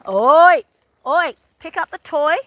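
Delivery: sharp loud "oi" to the dogs; calling out to the dogs. Real, not acted. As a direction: call the dogs to order, loud and high.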